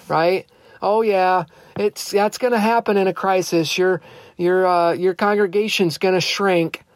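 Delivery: mock resignation, mildly sarcastic; facetious, sarcastic. Preacher mocking the crisis excuse to his congregation, facetious. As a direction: play along with the excuse, tongue in cheek. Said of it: "I'm being facetious. I'm being sarcastic".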